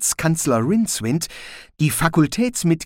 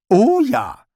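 Rincewind, dry; 11 semitones higher, 7 dB louder than usual. A narrator's reading. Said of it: "bestätigte Rincewind".

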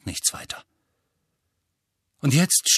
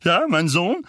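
slightly raised, assertive question; Onkel Vernon, loud; 5 semitones higher than usual. A narrator's reading. Uncle tries to regain control of talk, assertive. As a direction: assert yourself, lifting the last question. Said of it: "sagte Onkel Vernon laut".

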